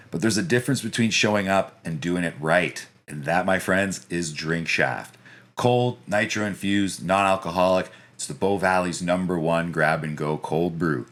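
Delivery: polished radio ad read. Real, not acted. Host reads the cold brew sponsor spot, radio voice. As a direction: sell it smoothly, like a radio spot. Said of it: "Do you practice your radio voice?".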